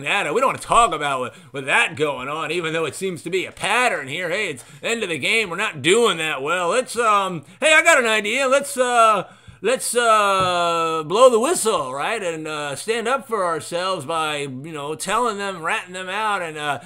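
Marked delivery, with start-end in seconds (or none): 4.3-14.4 sarcastic scheming. Pretend. Voicing the team's scheme.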